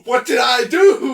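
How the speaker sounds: mock panic. Mocking friend's panicked call.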